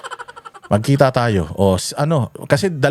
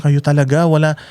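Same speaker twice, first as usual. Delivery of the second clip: imitating a wife's raised-pitch complaint; mock scolding from his worried wife, pitched up; higher, slowed reproach from the wife; 6 semitones higher than usual. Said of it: "galit na galit sa amin".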